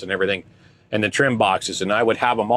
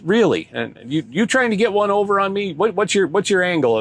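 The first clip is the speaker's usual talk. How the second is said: mock Asian accent; 8 semitones higher than usual.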